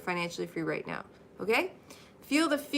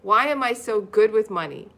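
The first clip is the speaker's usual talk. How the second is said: louder, proud "good with money"; upbeat affirmation; 6 dB louder than usual. Shown as a demonstration. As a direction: say it like the happy opposite. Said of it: "The opposite of it".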